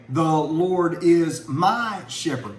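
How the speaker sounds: each word slow and separate, counted on fingers; slow spelled-out recital. Shown as a demonstration. Preacher counting words on his hand for the class, slow and deliberate. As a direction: lay out the five words one by one, slowly. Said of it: "just spell 'em out with your hand".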